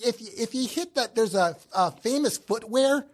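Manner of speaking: a hint of a local explaining the route; Midwestern direction-giver. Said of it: "you're giving someone directions".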